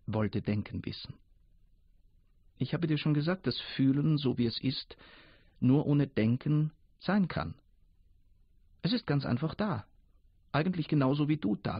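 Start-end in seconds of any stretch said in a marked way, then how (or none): 2.6-11.8 put-on a lightly higher, unhurried old river voice; river's voice. The old river patiently explains Fühlen to Denken, lightly higher voice.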